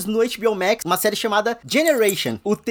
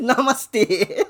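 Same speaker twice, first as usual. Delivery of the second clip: mock serene namaste; much slower than usual. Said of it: "eu senti o ódio daqui".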